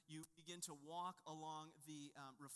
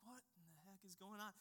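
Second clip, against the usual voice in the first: much softer, puzzled under the breath; baffled muttering; 2 semitones higher, 6 dB quieter than usual. Retold or imitated. Dad wondering why kids ignore the monument, soft and baffled. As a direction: grumble to yourself in disbelief. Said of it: "I'm like".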